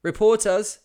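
high loud call; loud cry. A narrator's reading. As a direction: yell after the departing boat. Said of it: "they cried as I stood on".

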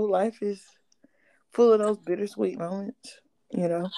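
whispering. Real, not acted. A confiding aside about life.

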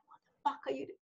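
quiet imitation of mum's Indian accent; lightly put-on Indian accent. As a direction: softly mimic an Indian-accented telling-off. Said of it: "I feel like talking in that accent".

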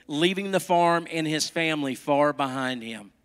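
lively, melodic storytelling with careful phrasing; animated picture-book narration; storybook read-aloud. A narrator's reading. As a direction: read it to little children.

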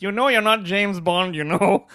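imitating an Asian mother, slowly and deliberately; measured mock Asian-accented scolding; mother's Asian accent. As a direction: do your Asian mom's stilted put-down. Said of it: "she talks like this".

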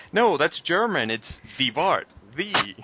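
smooth, smug excuse; Sideshow Bob. Retold or imitated. Sideshow Bob charming the parole board, mock suave. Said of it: "And he's like".

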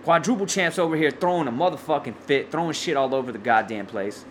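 breathless ranting; winded, short on air; out of breath. Real, not acted. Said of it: "I'm out of breath".

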